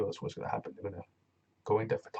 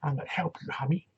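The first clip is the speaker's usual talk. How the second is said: high, loud mumble with something in the mouth; mumbling Rich Swann; 5 semitones higher, 5 dB louder than usual. Retold or imitated. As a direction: talk like there's tobacco in your mouth. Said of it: "when did Rich Swann start talking like this".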